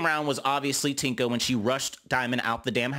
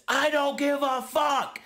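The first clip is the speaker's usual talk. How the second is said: high, slow sneering imitation, much higher; mock defiant Gretch; 12 semitones higher than usual. Gretch answering Jayla, imitated high and defiant. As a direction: drag it out high and snotty. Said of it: "Gretch says".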